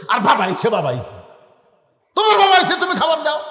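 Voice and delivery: loud, high sneering mimicry; wife scoffing that his father came; mocking angry wife. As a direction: spit out the complaint mockingly. Wife mocks angrily.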